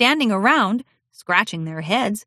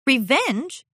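higher, puzzled question; surprised princess; 7 semitones higher than usual. Acted. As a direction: echo the word in disbelief.

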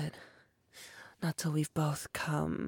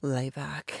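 lower, firm, insistent order; firm command; 3 semitones lower, 3 dB louder than usual. Acted. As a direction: lay down the law, no argument. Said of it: "I said".

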